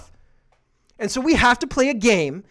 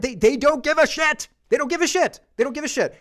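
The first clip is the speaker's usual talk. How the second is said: louder and higher, exasperated; venting at people who don't care; frustrated outburst; 6 semitones higher, 3 dB louder than usual. Real, not acted. Frustrated host venting to his co-host, louder and higher. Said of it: "I'm so frustrated".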